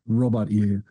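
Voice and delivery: hint of suave film-star charm; mock AI agent done as a suave actor; James Mason. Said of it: "make it James Mason".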